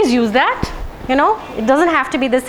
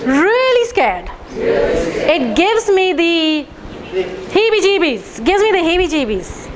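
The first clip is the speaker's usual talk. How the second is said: acted fear. Shown as a demonstration. Guiding the room through tapping, acting scared. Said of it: "Do it with me".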